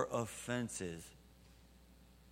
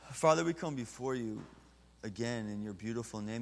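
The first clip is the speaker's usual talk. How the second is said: closing prayer. Acted.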